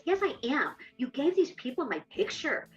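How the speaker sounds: indignant retort. Retold or imitated. Retold quarrel with husband.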